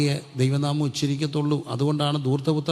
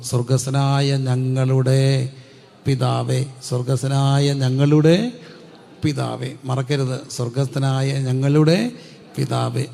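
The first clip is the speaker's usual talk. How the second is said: drawn-out, slightly louder chant of the prayer; slow prayer recitation; 3 dB louder, slower than usual. Acted. Pastor urging the congregation to remember the Lord's prayer, slow and chanted. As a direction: recite each word slowly, like a prayer.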